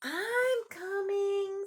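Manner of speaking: put-on high, slow eager boy call; boy answering the alligator; Zach. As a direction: call back that you're on the way. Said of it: "said Zach".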